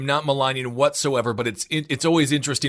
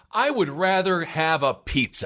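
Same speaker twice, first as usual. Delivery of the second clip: slow, breezy turn-down; casual refusal; slower than usual. Shown as a demonstration. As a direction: brush him off lightly with pizza.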